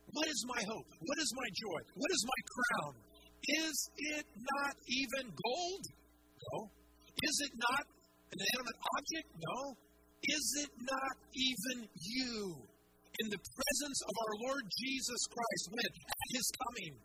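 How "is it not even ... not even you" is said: louder, slower challenge to the congregation; building rhetorical questions. Acted. Preacher asking the church what his crown is, rising in force. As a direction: press each question harder.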